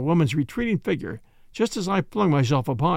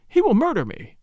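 higher, panicky cry; frightened shriek; 6 semitones higher, 3 dB louder than usual. Acted. Woman fleeing an armed man, frightened shriek. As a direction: cry out in contained terror. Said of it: "she shrieked".

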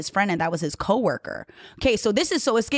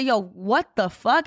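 retold disbelief; 3 semitones higher, slower than usual. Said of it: "that reaction is exactly what I ended up going".

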